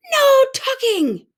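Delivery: loud, high, slow outraged cry; crew crying out. A narrator's reading. Pirate crew rejects tucking in, loud high cry. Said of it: "the crew cried".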